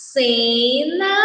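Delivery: "cena" with a long first syllable; drawn-out syllables. Shown as a demonstration. Teacher reviewing the words formed, drawn out by syllable. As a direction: stretch "cena" slowly.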